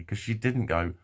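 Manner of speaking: ordinary talk, nothing marked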